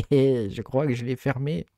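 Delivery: slow, chuckling admission; laughing at himself. Real, not acted. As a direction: laugh through owning up to a blunder. Laughs at own blunder. (en riant de sa bêtise)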